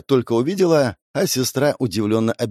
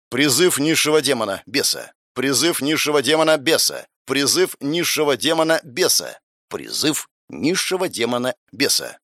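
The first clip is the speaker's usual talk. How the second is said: spell incantation; 2 semitones higher than usual. A narrator's reading. Summoning spell repeated four times.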